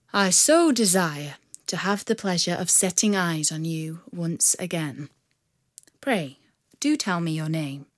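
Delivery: low, slowing earnest request; tender wooing. Acted. Robber woos Marian.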